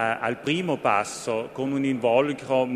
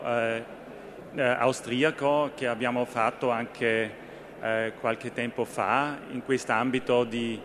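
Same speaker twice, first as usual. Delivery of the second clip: Italian spoken with an Austrian accent; careful Italian with an Austrian accent. Real, not acted. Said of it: "Scusate il mio, eh, italiano un po', eh, austriaco". (italiano con accento austriaco)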